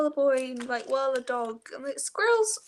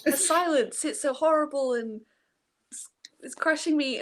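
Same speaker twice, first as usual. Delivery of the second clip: normal talking voice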